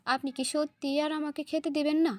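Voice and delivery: plain reading voice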